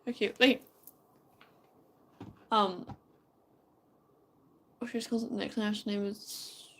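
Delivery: sleepy, fading mumble; drowsy, drifting into a whisper; nodding off. Real, not acted. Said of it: "I am half asleep right now".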